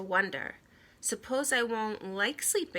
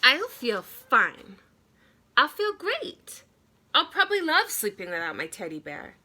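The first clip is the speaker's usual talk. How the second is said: put-on overconfident boy; 4 semitones higher, 6 dB louder than usual. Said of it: "I said".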